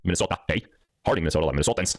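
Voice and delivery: rough attempt at a Minnesota accent. Host greeting Minnesota viewers, attempted Minnesota accent. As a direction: try a light, unpractised Minnesota accent. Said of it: "brush up on my Minnesota accent".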